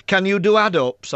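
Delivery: a hint of an eager infant; little girl. Little girl voiced in story.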